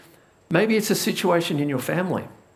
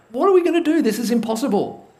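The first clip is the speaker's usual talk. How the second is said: much higher, louder panicked wail; hammed-up panic at an impossible situation; freaking out; 6 semitones higher, 4 dB louder, faster than usual. Servant freaking out at the army outside. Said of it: "He's freaking out".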